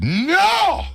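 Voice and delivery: high, loud mock shout of no; angry no. Dutch truffle seller scolding the buyer, mock angry shout. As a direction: snap it like a furious shopkeeper. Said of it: "He gets angry each time".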